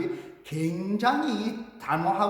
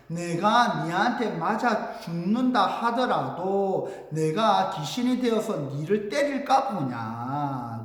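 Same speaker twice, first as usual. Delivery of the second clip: slow declaimed reply; measured, drawn-out character line; dramatic recitation; slower than usual. Acted. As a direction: stretch each phrase of the vow. Recites Chunhyang's answer to the guard.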